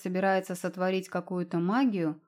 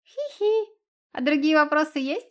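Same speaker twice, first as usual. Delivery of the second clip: high giggle then a louder cheeky question; 7 semitones higher, 5 dB louder than usual. Acted. Young fox teasing the girl, cheeky giggle. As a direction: giggle like a brat. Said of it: "хихикнул малолетний нахал".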